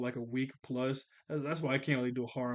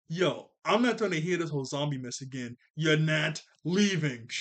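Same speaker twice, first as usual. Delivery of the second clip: half-hearted retold yell, slowing at the end; mock yelling. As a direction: imitate an angry telling-off, drawing out the last words. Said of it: "he just starts to yell at Jeremy".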